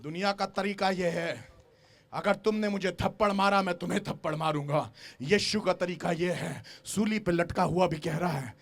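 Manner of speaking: soft, low, hushed retelling; quiet preaching. Acted. Preacher repeating the verse to the church, hushed and low. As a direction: draw them in with a hush. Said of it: "same verse retold softly".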